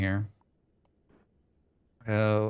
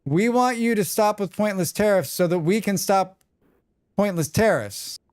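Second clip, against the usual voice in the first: higher, relishing the sentence; lifted, delighted read-back of the sentence; mock savoring quote; 7 semitones higher than usual. Shown as a demonstration. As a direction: savor each word like a fine line. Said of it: "That sentence is so beautiful".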